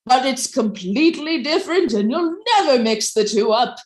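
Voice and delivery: upbeat infomercial pitch. Acted. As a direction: sell it like a late-night infomercial host. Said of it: "in the style of an infomercial".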